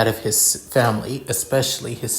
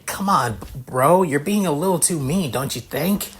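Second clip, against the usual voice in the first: put-on high-pitched young man; 5 semitones higher than usual. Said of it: "a high pitch but in somewhat deep voice".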